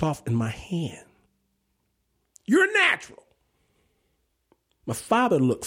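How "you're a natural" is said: Kriegel's praise. Retold or imitated.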